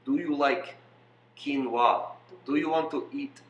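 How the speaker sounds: lightly put-on Russian accent; broken-English mock Russian. Offering food when asked for Russian, light mock Russian accent.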